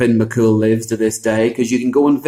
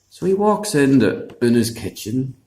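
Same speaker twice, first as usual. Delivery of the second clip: plain reading voice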